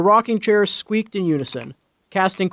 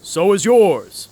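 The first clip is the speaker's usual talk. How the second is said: laughing; 3 semitones higher, 5 dB louder, slower than usual. A narrator's reading. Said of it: "the man laughed".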